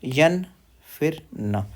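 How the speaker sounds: यन then न, split; syllable by syllable. Shown as a demonstration. Teacher splits the double n for students. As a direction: break यन्न into यन and न. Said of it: "क्या, क्यों?".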